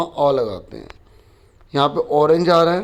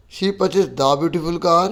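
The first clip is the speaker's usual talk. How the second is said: slow reading; much slower than usual. Shown as a demonstration. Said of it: "teacher tries each option".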